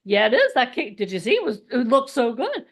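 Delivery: eager, insistent pleading; mildly hammed-up enthusiasm; emotional brain. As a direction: gush as the craving side arguing back. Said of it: "my emotional brain's like".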